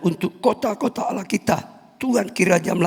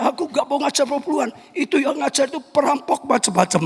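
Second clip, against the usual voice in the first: higher, fast mock-preacher voice; quoting the other pastor; 8 semitones higher, faster than usual. Preacher imitates another pastor condemning tithe teaching, high and fast. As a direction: rattle it off like a rival pastor lecturing. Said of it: "katanya pendeta".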